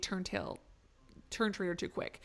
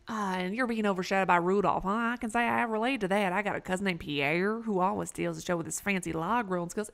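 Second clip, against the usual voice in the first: sympathetic questioner with a hint of Canadian; lightly voiced folksy Canadian; 5 dB louder than usual. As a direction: commiserate like a lightly sketched Canadian local. Voices the Canadian-sounding game character.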